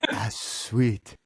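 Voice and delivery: put-on accented athlete, th turned to s; "ass sweet", imitated accented athlete. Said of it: "say it again slowly".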